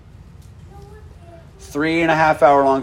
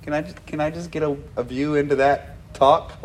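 softer, quick asking; hushed pleading request; 7 dB quieter than usual. Pretend. Believer in heaven softly asking Jesus a favour, hushed and quick. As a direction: ask it softly, like a shy favour. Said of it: "that might be one of the things I ask Jesus".

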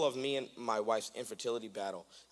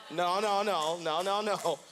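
emphatic no; 4 semitones higher, 6 dB louder, slower than usual. Retold or imitated. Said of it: "Holy Ghost would keep being like".

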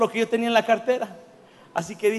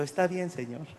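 soft surrender; 4 semitones lower, 9 dB quieter than usual. Retold or imitated. Quiet reply to the Spirit.

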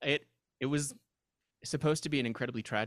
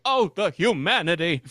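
dramatic wail; 6 semitones higher, 10 dB louder than usual. Retold or imitated. Quoting the famous radio cry.

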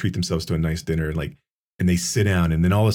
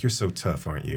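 soft taunting; 6 semitones lower, 7 dB quieter than usual. Retold or imitated. Kid mocking tough woman.

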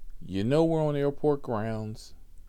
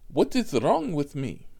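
mimicked proclaiming; 5 semitones higher, 5 dB louder than usual. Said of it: "is what she's proclaiming".

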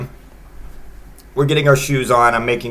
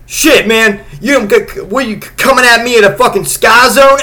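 put-on loud, high street-kid yell; high mock yell at the accuser; imitating the other kid; 8 semitones higher, 5 dB louder than usual. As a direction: shout back like a teen picking a fight. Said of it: "He's like".

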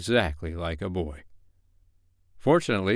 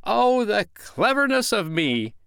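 high, loud, drawn-out boast; exultant, slow, soaring self-praise; rapturous crowing; 13 semitones higher, 5 dB louder, slower than usual. A narrator's reading. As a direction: crow it out, thrilled with yourself. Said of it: "he crowed rapturously".

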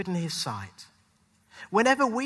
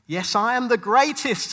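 louder, brash boast; boasting Ali quote; 4 semitones higher, 6 dB louder than usual. Retold or imitated. Preacher quoting the boxer's boast, louder. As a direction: proclaim it like a champion boxer. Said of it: "said Muhammad Ali".

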